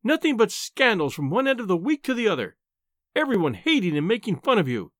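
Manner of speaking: high-pitched, indignant scolding; exasperated wife, dragging out the key words; furious wife. A narrator's reading. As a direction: scold your husband, patience at an end. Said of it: "was in a furious temper".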